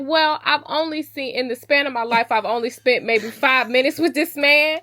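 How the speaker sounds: indignant protest. Retold or imitated. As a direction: push back hard, a bit outraged.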